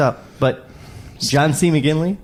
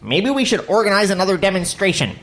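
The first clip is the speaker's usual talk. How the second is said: higher, put-on self-parody voice; mock your own voice, pitched up; impersonation of himself; 6 semitones higher than usual. Reading his own line as himself, self-parody voice. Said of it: "That's my impersonation of myself"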